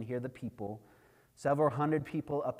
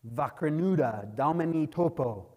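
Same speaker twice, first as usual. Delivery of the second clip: raised voice, imitating villagers' shout; retold crowd shout; 3 semitones higher, 5 dB louder than usual. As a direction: call it out like an alarmed crowd, mildly. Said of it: "People began to shout".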